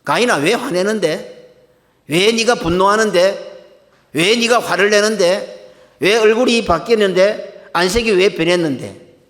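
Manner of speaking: slow, drawn-out questioning rebuke; pointed reproof. Acted. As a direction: press each question slowly, as God confronting Cain. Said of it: "정확하게 지적하시죠".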